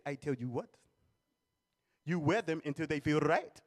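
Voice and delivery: cold-blooded reply. Retold or imitated. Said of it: "His answer was so cold-blooded".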